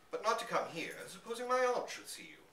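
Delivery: put-on startled gentleman scolding the boy, furious and alarmed; alarmed fury. A narrator's reading. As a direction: scold him while dreading discovery. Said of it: "asked Van Shiel furiously".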